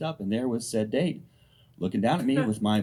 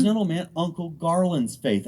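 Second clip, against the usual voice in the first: higher-pitched imitation of Mississippi cousin; earnest Mississippi twang, pitched up; Mississippi accent; 6 semitones higher than usual. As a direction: play an insistent kid with Mississippi accent. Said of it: "L J from Mississippi".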